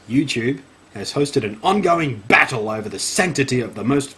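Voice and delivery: theatrical emphasis, drawing out the final words; mock-serious read-aloud; dramatic article reading. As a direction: play up the scandal.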